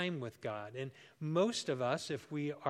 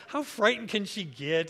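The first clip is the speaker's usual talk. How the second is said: mischievous thought; 5 semitones higher, 8 dB louder than usual. Retold or imitated. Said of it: "And I just thought".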